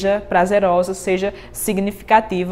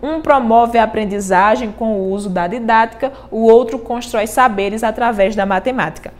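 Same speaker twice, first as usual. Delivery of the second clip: steady, rhythmic reading of the stanza; cordel verse recital. Shown as a demonstration. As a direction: give each line its metre. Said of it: "eu escolhi a palavra professor". (recitando a estrofe com ritmo)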